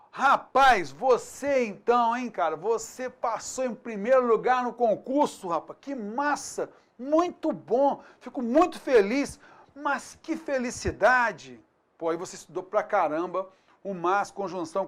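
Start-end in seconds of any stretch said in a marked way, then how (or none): 0.1-11.6 mock-excited praise for a friend who passed; excited congratulation. Shown as a demonstration. Teacher playing a friend who passed the exam, excited. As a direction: cheer a friend on, hammed up.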